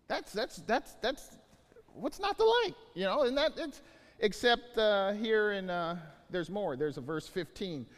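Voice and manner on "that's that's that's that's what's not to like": enthusiastic. Real, not acted. Rhetorical enthusiasm.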